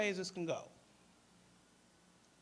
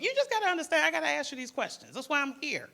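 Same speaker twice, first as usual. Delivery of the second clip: firm insistence; 9 semitones higher, 6 dB louder, faster than usual. Retold or imitated. Crisis worker firmly explains to the girl.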